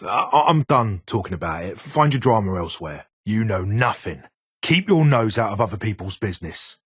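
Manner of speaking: defensive anger. Real, not acted. Shutting down prying questions.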